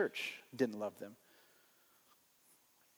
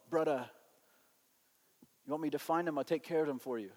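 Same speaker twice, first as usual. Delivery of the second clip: Bill, dead earnest; 2 semitones lower, 6 dB quieter, faster than usual. Retold or imitated. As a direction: quietly offer to handle it, imitating him. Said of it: "in all honesty, he said".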